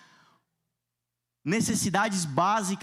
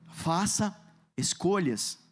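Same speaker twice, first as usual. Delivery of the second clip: voz de profeta; 2 semitones lower, slower than usual. Acted. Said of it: "Diga comigo com voz de profeta".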